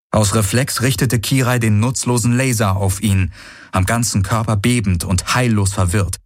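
plain reading voice

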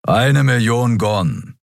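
stretched, grumpy reminder; grumbling. Acted. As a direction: grumble the price out word by word. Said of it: "brummte Keru".

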